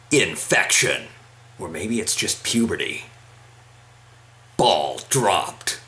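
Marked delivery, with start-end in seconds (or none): 4.6-5.8 announcer voice. Pretend. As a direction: boom it like a game announcer. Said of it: "got my voice fucked up".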